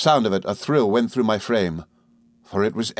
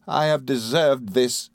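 slow, higher, sorrowful admission; Emily, abject; 4 semitones higher, slower than usual. A narrator's reading. Emily yielding to Rosa, abject. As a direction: accept the blame miserably. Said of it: "said Emily".

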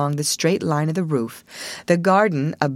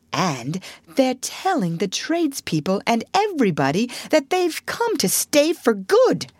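a hint of the indignant Rat, higher pitched; lightly voiced Rat reporting bad news; 5 semitones higher than usual.

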